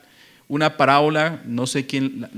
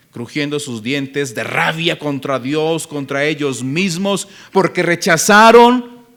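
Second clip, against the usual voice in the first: building preacher's shout; 7 dB louder, slower than usual. Real, not acted. Preacher warning brothers of teeth gnashed in rage, building to a shout. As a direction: drive it up word by word into a shout.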